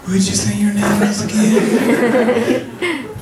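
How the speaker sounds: high, slow, laughing caller voice; hammed-up high caller; nosy caller. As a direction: drag the question out in a high mock voice. Caller voiced in phone story.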